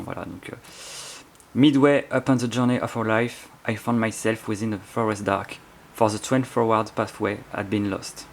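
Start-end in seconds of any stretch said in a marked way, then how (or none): 1.5-8.3 English read slowly in a strong French accent. Real, not acted. French book reviewer reads Dante's opening in English, French accent. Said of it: "pour mon accent de merde".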